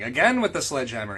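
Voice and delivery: a hint of an old deli rabbi; lightly kvetching old man. Friend reading fanfic, a hint of an old deli rabbi. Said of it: "like an old rabbi at a deli".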